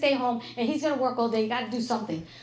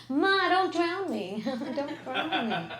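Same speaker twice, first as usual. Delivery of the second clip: mock child plea; 3 semitones higher, much slower than usual. Kids screaming in the bath.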